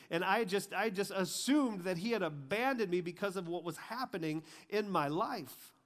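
high, loud, swelling testimony; impassioned preaching. Real, not acted. Preacher telling people God never left his side, impassioned. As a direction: pile up the proofs with mounting force.

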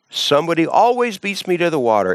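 mock sick man's whine; whiny excuse. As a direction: grumble that someone always beats you.

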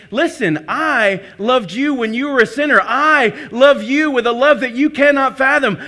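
slow, loud, fervent preaching; forceful preached declaration, words drawn out near the end; voicing God's promise. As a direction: declare it slowly with full weight, as God speaking to his child. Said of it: "What he's saying is".

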